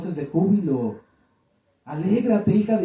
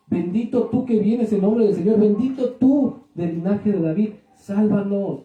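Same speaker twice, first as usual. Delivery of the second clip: crowd acclamation; 3 semitones higher, 3 dB louder than usual. Retold or imitated.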